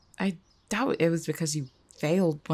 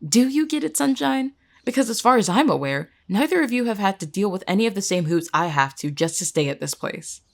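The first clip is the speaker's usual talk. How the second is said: bitter challenge. Acted. Jess confronts friend about unfair hoops.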